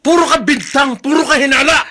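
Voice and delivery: angry retort. Acted. Accusing quarrel between spouses.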